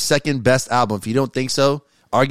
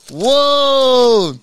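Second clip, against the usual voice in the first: surprised; 10 semitones higher, 4 dB louder than usual. Real, not acted. Opening gift, sees favorite character.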